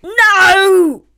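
a high, loud scream of refusal. A narrator's reading. Jonathan screaming at having to go to the christening. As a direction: shriek NO like a child in a tantrum. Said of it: "Jonathan screamed".

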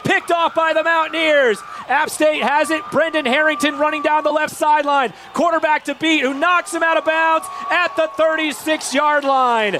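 excited call. Real, not acted. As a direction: call the pick-six run live. Interception return, radio call.

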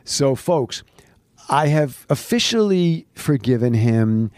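hushed whisper. Real, not acted. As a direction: whisper it to the folks. Whispered aside to audience.

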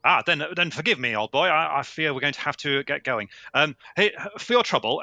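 hammed-up tweedy English toff; posh English gentleman. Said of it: "No, I'm English".

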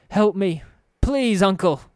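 high, loud, panicked cry for help; desperate pleading. Acted. Thug bent backwards begging his uncle Farid, panicked scream. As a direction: beg your uncle to save you, frantic.

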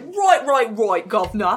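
"right" said "roit", "governor" said "guvna"; light mock Cockney; Cockney accent. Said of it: "the whole Cockney accent thing where I was like".

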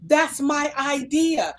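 slow, tearful mock sob of a lament; retold crying. To the lady at the mall, slow tearful cry. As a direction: lightly replay the tearful cry. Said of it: "I started crying".

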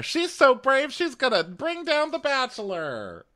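very high, breathless fan gush; squealing mock fan praise. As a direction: gush like a starstruck superfan. Mocking fan gushing about Claire.

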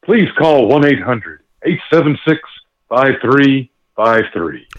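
lightly voiced TV mystery host; Robert Stack. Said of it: "do it in my best impression for you".

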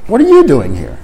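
"What are you doing here?" with "you" jumping up; light surprise at an old acquaintance; mild surprise. Shown as a demonstration. Teacher acting out meeting a long-unseen friend, mild surprise. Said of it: "a person you haven't seen".

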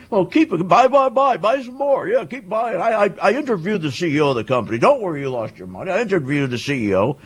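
a lightly voiced hyped-up TV stock pundit, fast and pushy; mocking Jim Cramer. Mocking a TV stock host who tells a caller to keep buying. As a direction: poke fun at a cheerleading market host. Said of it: "that's how he sounds. He sounds like a moron".

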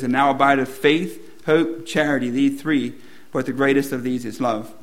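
measured, solemn Bible reading voice; scripture reading. Acted. Pastor reading Corinthians to the congregation, solemn reading. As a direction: read the verses like a pastor from the pulpit. Reads last verse.

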